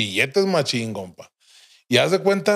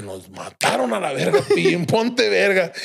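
laughing mock panic; 4 semitones higher than usual. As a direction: warn him through laughter. Knocking on doors, fearing death. (pánico fingido entre risas, lento)

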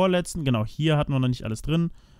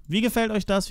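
excited repeat; 8 semitones higher than usual. Real, not acted. Repeats question much higher.

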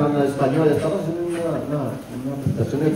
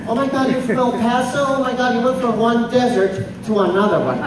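imitating white lady; 7 semitones higher than usual. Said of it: "She said".

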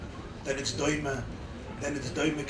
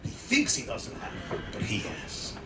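hushed whisper; 4 semitones lower, 4 dB quieter than usual. Acted. Sudden drop after loud line.

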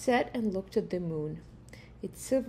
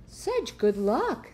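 slow, delighted, a bit louder; exclaiming; 3 semitones higher, 4 dB louder, slower than usual. Acted. Neighbors congratulate the farmer, slow and delighted. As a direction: marvel at his fortune. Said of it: "the neighbors exclaimed".

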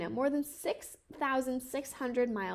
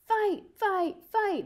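higher, louder chant of fight; crowd yelling; 8 semitones higher, 4 dB louder, much slower than usual. Acted. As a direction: call it out like a rowdy crowd. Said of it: "the people in the crowd yelled".

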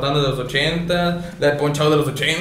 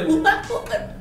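mock squeaky announcer; 6 dB quieter, slower than usual. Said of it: "Y el otro de".

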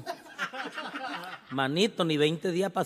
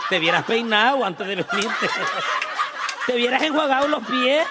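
loud teasing scold; 4 semitones higher, 5 dB louder than usual. Acted. Comic scolds heckler loudly.

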